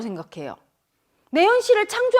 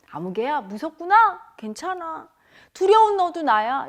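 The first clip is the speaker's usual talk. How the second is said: gentle reassurance; 2 semitones higher than usual. Acted. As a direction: hush the fear kindly. Comforting one's frightened mind.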